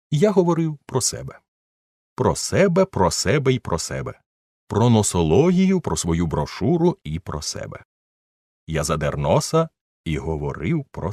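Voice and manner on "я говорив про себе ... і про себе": raised, pompous voice savouring every себе; smug self-praise. A narrator's reading. Narrator boasting about himself, pompous and high. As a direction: preen as he talks about himself.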